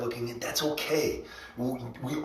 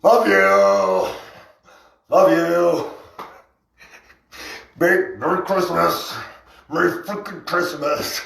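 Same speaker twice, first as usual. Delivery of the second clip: loud, high sing-song love you; mock sweet greeting; 5 semitones higher, 5 dB louder, slower than usual. Greeting hecklers, loud mock cheerful love you. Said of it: "But we're like".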